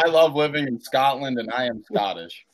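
put-on Scottish accent. Shown as a demonstration. Friend shows the others they can do Scottish, Scottish accent. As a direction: try out a Scottish accent on the line. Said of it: "I can do Scottish".

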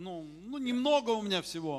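humble David. Retold or imitated. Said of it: "да, я такой вот".

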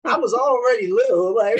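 loud, high-pitched, laughing protest; emphatic joking. Real, not acted. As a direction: burst out with it, amused and emphatic. Jokes about name, both laughing.

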